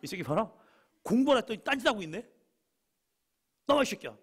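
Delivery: high, loud and fast angry yell; teacher yelling. Retold or imitated. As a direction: build into a furious teacher's shout. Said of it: "우리 선생님 말씀이에요". (학생에게 화가 난 담임선생님의 고함)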